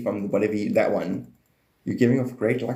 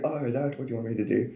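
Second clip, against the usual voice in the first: soft mock realization; 5 dB quieter than usual. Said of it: "He was like".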